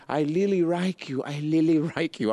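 mock Japanese accent. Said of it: "she was telling me".

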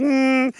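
short high hum; imitated hum. Host imitating guest posing in a little hat, high hum. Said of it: "just be like".

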